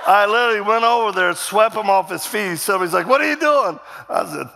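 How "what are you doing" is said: high, loud mock alarm; alarmed outcry. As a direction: act out a shocked onlooker calling out. Bystander reacts to the takedown.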